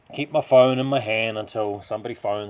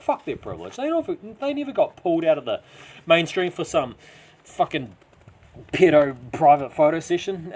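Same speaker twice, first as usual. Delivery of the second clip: loud, high, bitter tirade against the rich; furious rant; 9 semitones higher, 8 dB louder than usual. A narrator's reading. Driving past mansions, Tone rages at the rich: loud angry rant. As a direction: spit it out, seething with resentment. Narrator rants at rich homeowners.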